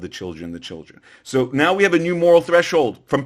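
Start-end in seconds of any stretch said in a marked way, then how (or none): 0.0-1.0 mocking whisper-like quote. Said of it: "whenever the Jews are involved".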